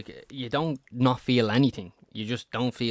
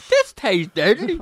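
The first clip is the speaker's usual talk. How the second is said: tag only; 13 semitones higher, 11 dB louder, slower than usual. Acted. Joking about eating a baby.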